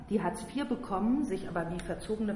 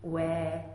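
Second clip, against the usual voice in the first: bleating whine; 4 dB louder than usual. A narrator's reading. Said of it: "blägte sie auf einmal".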